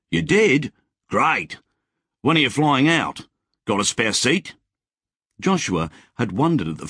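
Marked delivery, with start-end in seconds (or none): 0.1-4.6 higher, keen and hopeful; eager excitement. Acted. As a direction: jump at the chance of a ride out. Wally eager about flying out.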